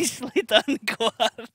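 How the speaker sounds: laughing through the words, own accent. Real, not acted. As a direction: drop the Scottish accent and laugh it out. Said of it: "That's almost as good as my Scottish accent".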